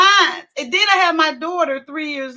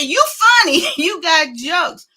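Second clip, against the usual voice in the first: laughing; 5 semitones higher, 5 dB louder than usual. Retold or imitated.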